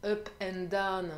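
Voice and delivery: slow, mock-proud English accent. Shown as a demonstration. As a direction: say it slowly in French-tinged English. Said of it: "avec mon magnifique anx-, accent anglais". (accent anglais appliqué)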